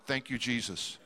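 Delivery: low, soft laugh through the words; laughing thanks. Retold or imitated. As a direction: chuckle it out with relief. Relieved at being only bidder.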